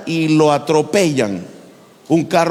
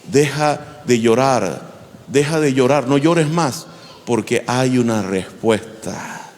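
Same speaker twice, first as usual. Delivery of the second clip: gentle comfort; 3 semitones lower than usual. Retold or imitated. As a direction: soothe a grieving mother. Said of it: "Le dio una palabra de aliento". (consuelo lento y suave)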